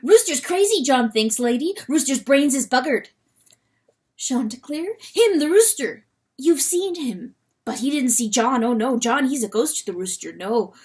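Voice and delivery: high, loud, broken-English weasel; a fretful creature blurting out bad news; agitated weasel John. Weasel John warning Lady Hen, high and loud.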